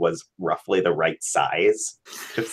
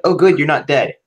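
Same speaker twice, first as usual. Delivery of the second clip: Razor in character; 8 semitones higher, 5 dB louder than usual. Acted. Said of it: "He's like".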